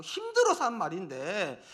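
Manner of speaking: hammed-up, half-laughing exasperation; exasperated plea. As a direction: plead as someone fed up with being picked apart. Job's exasperated plea acted out.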